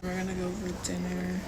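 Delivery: hushed whisper on a balcony. Real, not acted. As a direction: whisper so neighbours can't hear. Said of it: "I have to whisper because".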